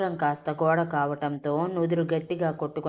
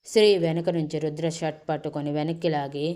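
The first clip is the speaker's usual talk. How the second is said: ordinary delivery, nothing marked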